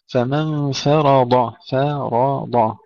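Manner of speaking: فرض slowly, thin f then heavy r and ḍ; light fa, heavy ra. Shown as a demonstration. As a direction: start فرض light, then thicken ra and dad. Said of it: "ترقيق الفاء ثم تفخيم الراء والضاد". (فرض بفاء مرققة وراء وضاد مفخمتين)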